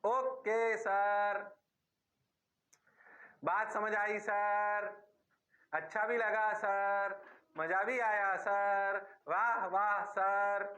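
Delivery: lightly voiced students, slow drawn-out replies; mock students. Teacher mimicking his students praising him, slow and drawn out. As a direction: play the students gushing at their teacher, drawn out.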